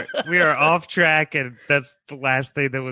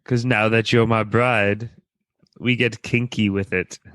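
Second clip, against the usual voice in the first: deep weird voice; 2 semitones lower than usual. Acted. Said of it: "Why are you talking like that?".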